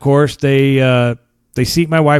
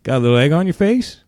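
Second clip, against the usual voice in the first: gloating tease; 2 semitones higher than usual. Retold or imitated. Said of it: "Rubbing it in on me".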